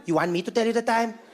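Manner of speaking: mock-dangerous question back; menacing question. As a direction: turn a small question into a veiled threat. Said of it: "makes them sound so dangerous".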